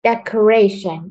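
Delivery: "Decoration" slowed, weight on the "ra" syllable; stressed syllable. Shown as a demonstration. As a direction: say "Decoration" slowly, leaning on "ra". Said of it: "Cố gắng nhấn mạnh vào từ gray".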